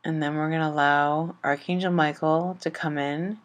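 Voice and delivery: gentle chakra meditation over music; guided meditation. Acted. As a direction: ease the listener into calm, one breath at a time.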